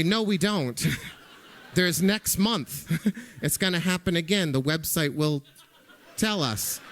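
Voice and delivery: amused, with laughs breaking in between the words; laughing reply. Retold or imitated. Husband to wife about waiting a month, laughing. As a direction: chuckle it out, brushing the idea off lightly.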